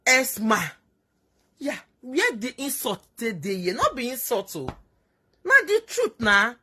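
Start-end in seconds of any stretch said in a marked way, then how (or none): 5.4-6.5 emphatic. Real, not acted. Insisting it is the truth.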